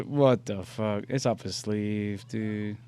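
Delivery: slow, slightly muted disbelief; mock puzzlement. Imitating a monkey watching the trick, mildly baffled. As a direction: work it out slowly, mildly baffled.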